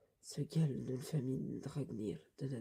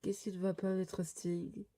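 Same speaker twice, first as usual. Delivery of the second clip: raised pitch, worried character voice; uneasy small companion; 3 semitones higher than usual. Acted. Lector uneasy as master Sting stares, worried companion voice. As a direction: question your master nervously, pitched high.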